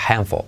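"handful" as "hanfo", L barely there; faint final L. Shown as a demonstration. Teacher showing the final letter, "handful" with faint L. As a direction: let the L of "handful" almost vanish. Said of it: "L al final. Casi no se pronuncia".

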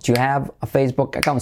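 quick, rhythmic run with "Do you" as "chu". Shown as a demonstration. Teacher doing it with rhythm, quick contracted "Do you". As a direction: reel off "Do you have" briskly in one beat. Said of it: "Vamos a hacerlo con ritmo".

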